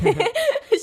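bright high laugh; high burst of laughter. Real, not acted. Laughs at her own story.

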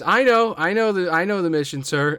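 nervous excitement. Acted. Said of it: "he's kinda nervous".

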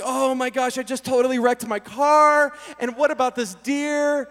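mildly panicked retelling; freaking out. Retold or imitated. Driver who just wrecked the car, freaking out. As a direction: fret with a touch of panic. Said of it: "So I'm freaking out".

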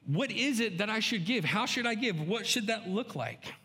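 a hint of heartfelt prayer; earnest prayer. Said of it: "you've gone to the Lord and said".

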